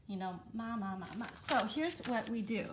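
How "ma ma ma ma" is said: ma said in first, second, third and fourth tone in turn; four Mandarin tones. Shown as a demonstration. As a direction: run the syllable ma through all four tones. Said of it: "she forgets which one is".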